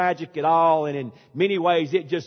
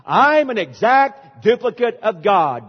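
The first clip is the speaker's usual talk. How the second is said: loud, raised preacher call to the crowd; mock revival leader, loud; imitating a preacher's call; 5 semitones higher, 7 dB louder than usual. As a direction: drive the congregation on, loud and high. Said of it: "Listen to what took place".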